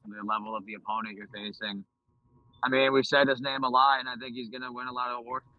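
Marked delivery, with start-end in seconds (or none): 2.6-5.5 muffled, distant phone audio; like talking underwater. Real, not acted. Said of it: "You sound like you're underwater".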